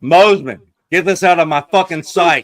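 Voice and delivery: loud mock outrage. Yelling at a picture.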